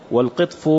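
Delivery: والقطف said "wal-qitf"; qitf, not qatf; kasra on first letter. Shown as a demonstration. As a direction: give the ق of والقطف an "i" vowel. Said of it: "بكسر أوله".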